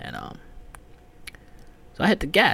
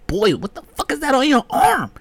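louder, higher jeering; mocking yell; 11 semitones higher, 9 dB louder than usual. Teller mocking the neighbor's boils, louder higher jeer. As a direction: jeer at her arm.

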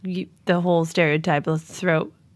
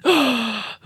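mock crowd gasp; 3 semitones higher than usual. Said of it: "everybody goes".

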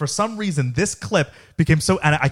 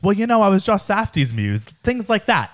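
Valley Girl impression; 5 semitones higher than usual. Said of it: "But imagine I say".

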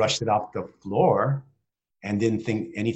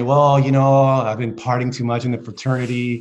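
louder, laughing mock confession; laughing through it; 7 dB louder than usual. Father laughing as he imagines his son's easier confession. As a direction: chuckle through an imagined excuse.

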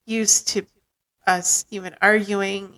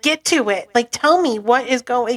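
retold, raised-pitch exasperation; impatient; 4 semitones higher, 4 dB louder than usual. Hurrying partner through the package story, impatient. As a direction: press them to get on with it.

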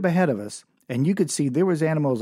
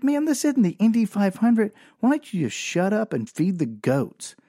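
annoyed dad; 4 semitones higher than usual. Retold or imitated. Dad scolding kid in car.

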